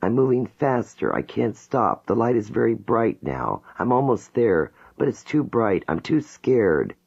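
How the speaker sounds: a woman overwhelmed and begging to go back; terrified pleading. Acted. Jane in regression, begging the hypnotist to let her go back. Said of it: "She begins sobbing".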